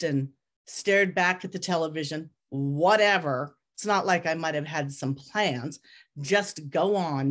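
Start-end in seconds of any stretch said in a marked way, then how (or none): 2.5-7.3 slow, put-out grumble; a hint of a huffy old woman brushing her off; grumbling grandmother. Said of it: "she grumbled".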